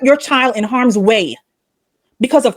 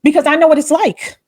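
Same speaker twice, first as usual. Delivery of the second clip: heartfelt and insistent, pitch lifted; worked up, pressing the point; passionate; 3 semitones higher than usual. Real, not acted. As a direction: plead it with real conviction. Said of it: "to be so passionate about it".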